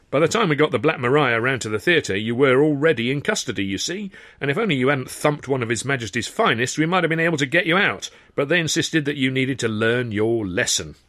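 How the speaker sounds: lightly voiced cheerful rogue; airy cockney-ish showman, lightly done; breezy Sid.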